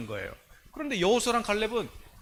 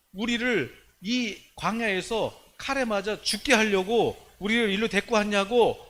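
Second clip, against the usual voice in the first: acted reproach growing louder; resentful complaint; 3 semitones higher, 4 dB louder than usual. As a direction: protest accusingly, building in force. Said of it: "또 이 절에는 원망하고".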